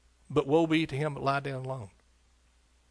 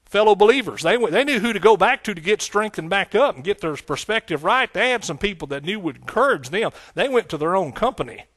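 raised, fervent preaching voice; 5 semitones higher, 6 dB louder than usual. Acted. Preacher warns his church about bad company, fervent. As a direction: press it home to the congregation.

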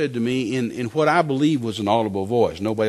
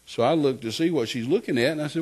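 ordinary delivery

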